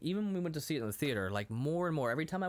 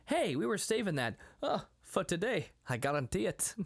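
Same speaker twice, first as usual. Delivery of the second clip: higher-pitched mock Scottish burr; Scrooge McDuck; 5 semitones higher than usual. Rich host popping the cork, mock Scottish accent. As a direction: imitate a lilting cartoon Scottish accent. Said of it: "He's doing a Scrooge McDuck impression".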